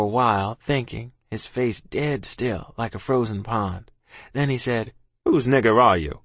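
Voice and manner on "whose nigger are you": stern captain. Acted. Captain's held voice.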